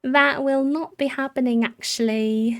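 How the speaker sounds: mock-firm no, easing off at the end; emphatic refusal. Real, not acted. Repeats the refusal more firmly.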